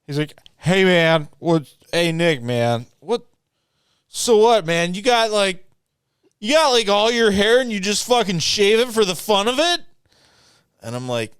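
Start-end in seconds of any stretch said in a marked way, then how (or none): 0.6-9.8 high, loud imitation of a Muppet-like friend; Muppety voice. Imitating tall friend asking about shaved head, Muppety. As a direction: put on a Muppety voice, pushed up and loud. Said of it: "he kinda talks like a Muppet".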